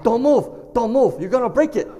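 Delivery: scolding mom. Retold or imitated. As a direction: warn urgently as a fussing mother. Mom warns him not to move.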